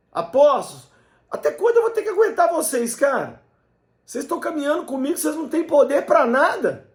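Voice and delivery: high-pitched, fast, exasperated scolding tone.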